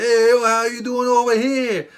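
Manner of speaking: loud, high shout echoing back; his hyped-up reply. Retold or imitated. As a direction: toss the same hype right back. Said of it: "And he's like".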